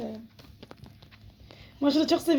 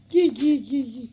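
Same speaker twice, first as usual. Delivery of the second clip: louder repeated call to the kitten; calling the cat; 4 dB louder, slower than usual. Real, not acted. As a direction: call it over, insistent. (kediye yüksek sesle çağırma)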